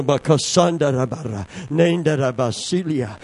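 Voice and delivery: fluent unknown syllables of prayer; speaking in tongues. Real, not acted. Preacher praying in tongues before the congregation. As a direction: pray in tongues.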